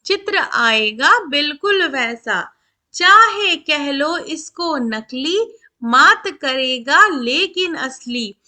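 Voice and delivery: put-on slow, measured verse reading for children; poem recitation. A narrator's reading. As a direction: stretch each word with a lilting rhythm. (बच्चों के लिए लय में कविता-पाठ)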